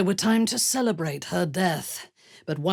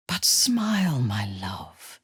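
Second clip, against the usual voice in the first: whisper; 4 semitones lower, slower than usual. Acted. Comforting a lover, whispered. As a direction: breathe it close to the ear.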